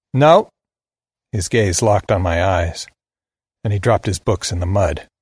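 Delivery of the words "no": put-on young Steve's southern drawl, pitched up; higher-voiced southern kid, challenging. A narrator's reading. Southern boy asks the stranger at the crossroads, in a drawl. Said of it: "He had a deep southern drawl".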